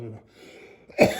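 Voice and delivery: usual speaking voice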